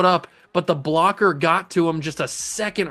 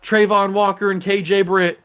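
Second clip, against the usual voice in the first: loud, high play-by-play burst; excited sack call; 5 semitones higher, 5 dB louder than usual. Real, not acted. Gamer calling his defense's sack, loud and high.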